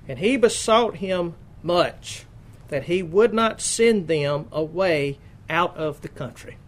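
measured, emphatic Bible reading; scripture reading. Acted. Preacher reads Mark's gospel to the congregation, emphatic scripture reading. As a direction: read out the verse in deliberate, weighted phrases.

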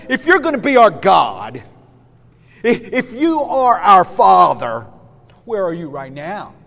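emphatic, demanding mock complaint; scornful petulance. Israelites demand God meet their need now, petulant. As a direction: challenge with acted indignation, hammering the demands. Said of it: "their scorning petulance and their incredulous doubt".

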